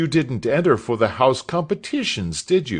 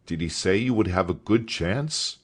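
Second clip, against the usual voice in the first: higher, louder, eager schoolmaster; a hint of a delighted schoolmaster; enthusing master; 6 semitones higher, 4 dB louder than usual. A narrator's reading. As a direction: gush about your old trainer. Master enthuses about Joe.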